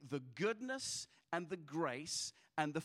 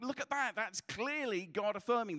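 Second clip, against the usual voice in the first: higher-pitched, eager pointing-out; insistent appeal; 4 semitones higher than usual. Acted. Pastor urging his doubting leaders to look, insistent.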